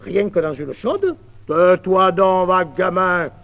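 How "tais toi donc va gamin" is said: scolding. Acted. Master scolds apprentice.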